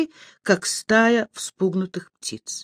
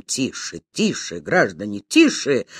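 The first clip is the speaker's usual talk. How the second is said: low, hushing appeal, firmer on the last word; calling for order; 8 semitones lower than usual. A narrator's reading. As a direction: try to quieten the crowd, pitched down. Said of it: "попробовал навести порядок".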